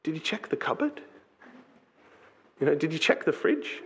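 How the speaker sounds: softly spoken, calm parental question; lightly acted patient parent. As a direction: gently ask as an unruffled parent. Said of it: "just very calmly says".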